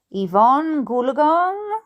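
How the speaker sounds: slow, dreamy repeated name; mantra. Acted. Dad driving, saying it to himself like a mantra. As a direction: draw the name out slowly. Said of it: "as if it were a travelling mantra".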